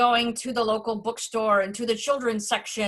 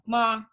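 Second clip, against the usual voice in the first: "ma" held on one level pitch; first-tone monotone. Shown as a demonstration. Showing Mandarin first tone, "ma" held level. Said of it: "They're like a monotone".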